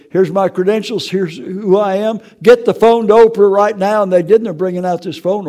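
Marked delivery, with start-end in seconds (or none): 0.1-4.0 rising to a firm, louder demand; insistent demand. Retold or imitated. Doctor calling Oprah's staff, a louder firm demand. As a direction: order them, then push harder. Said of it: "but he said".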